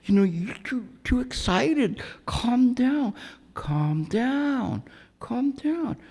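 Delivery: mock concern. To a tall man pointing at him, high mock-concerned calming. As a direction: pretend to calm an angry man down, way up high. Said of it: "I'm going".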